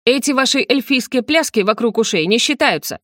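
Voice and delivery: возмущённый выкрик повыше; выкрикни возражение сопернику; Сандр. Acted. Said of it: "прокричал Сандр". (возмущённо кричать)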